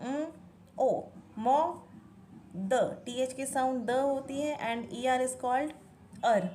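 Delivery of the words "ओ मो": ओ, मो said as separate slow sounds; phonetic sounding out. Shown as a demonstration. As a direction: sound out ओ then मो slowly, letter sounds. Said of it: "ये क्या बनेगा".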